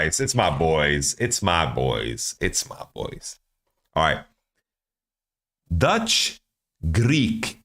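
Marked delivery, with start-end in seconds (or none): 0.0-2.3 fond. Real, not acted. Recognizes favorite team fondly. 2.4-3.4 soft fond whisper; whispered to himself. Real, not acted. Third repeat fading out.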